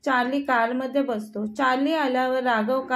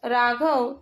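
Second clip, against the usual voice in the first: mildly raised call of Raghav; second call, a touch louder; much slower than usual. Acted. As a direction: call Raghav after him, slightly louder. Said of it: "Medha मागून ओरडत असते".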